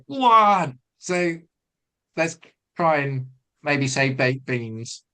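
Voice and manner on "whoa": high loud yelp of "Whoa"; high panicked whoa to a horse. Shown as a demonstration. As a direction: shriek it in panic. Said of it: "We go".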